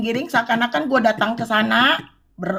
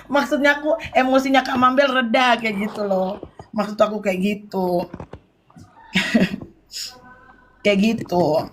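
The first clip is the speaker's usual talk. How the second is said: laughs, then explains through laughter; real laughter while explaining; laughing. Real, not acted. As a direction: giggle before and during the line.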